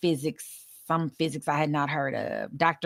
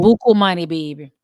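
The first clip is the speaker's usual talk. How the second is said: New Orleans accent; 8 dB louder than usual. Shown as a demonstration. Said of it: "in my best New Orleans voice".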